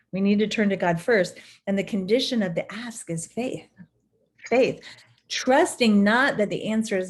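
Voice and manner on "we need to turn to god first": whispered repeat. Shown as a demonstration. Preacher to congregation, whispered for emphasis. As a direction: whisper the line back, breathy and unvoiced.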